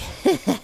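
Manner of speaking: gleeful little snicker; acted scheming giggle; mischievous chuckle. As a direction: chuckle like a prankster who just planted something. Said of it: "you're like".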